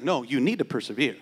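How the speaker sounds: low, unbothered voice of God; God's calm reply. Pretend. Pastor voicing God answering a believer, low and calm.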